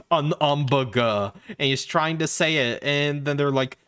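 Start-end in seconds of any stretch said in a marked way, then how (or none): 0.1-1.3 An hamburger slow with dropped h, French style; lightly voiced Frenchman; mock French An hamburger; French accent. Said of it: "and he goes".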